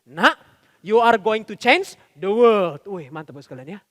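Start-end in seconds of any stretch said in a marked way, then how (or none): 0.1-2.8 slow, drawn-out proud-dad praise; over-praising father. Acted. Father praising his child in the car, slow gushing praise. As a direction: lay the praise on slowly, word by word. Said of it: "Puji-pujinya bilang gini".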